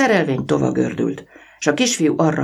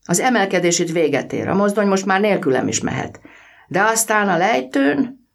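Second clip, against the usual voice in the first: put-on boy's voice; 8 semitones higher than usual. A narrator's reading. Boy Vaszja voiced in story.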